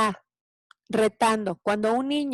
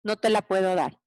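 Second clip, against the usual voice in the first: evenly repeated, unruffled refusal; composed parent not getting hooked; calm broken record; 3 semitones lower than usual. Shown as a demonstration. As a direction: repeat it calmly like a scratched record. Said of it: "yo con toda tranquilidad, me convierto en algo que se llama el disco rayado".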